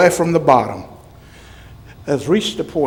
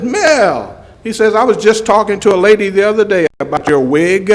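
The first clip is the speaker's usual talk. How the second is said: laughing; 7 semitones higher, 4 dB louder than usual. Retold or imitated. Retelling a colleague's teasing joke.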